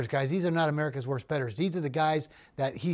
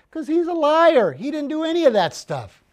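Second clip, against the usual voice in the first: much higher, louder, slowed-down seller; exasperated punchline; 10 semitones higher, 9 dB louder than usual. Retold or imitated. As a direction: blurt out the dog's a liar. Seller's punchline about lying dog.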